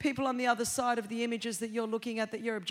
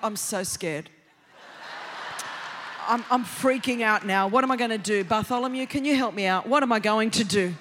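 mock scared God; 5 semitones lower than usual. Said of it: "And God's like".

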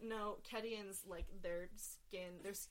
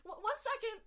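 loud, higher call through the door; 9 semitones higher, 10 dB louder than usual. Acted. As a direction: call out from another room. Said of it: "you hear a voice like".

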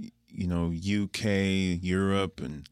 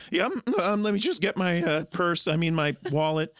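flustered buyer; 9 semitones higher than usual. Retold or imitated. Alistair flustered at counter.

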